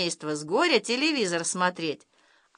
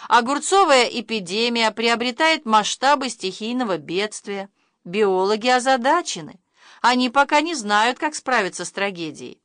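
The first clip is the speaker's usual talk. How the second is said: news bulletin. Acted. TV announces the cucumber epidemic in a solemn news voice. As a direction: read it like emergency TV news.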